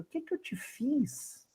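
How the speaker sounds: soft, wounded question; tearful whisper of a question; hurt plea. Acted. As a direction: ask it softly, hurt. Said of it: "vira pra você e pergunta".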